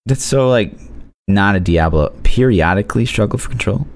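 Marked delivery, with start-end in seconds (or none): 2.2-3.9 puzzled rising repeat; incredulous. Real, not acted. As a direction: repeat it in disbelief. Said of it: "What does that mean?".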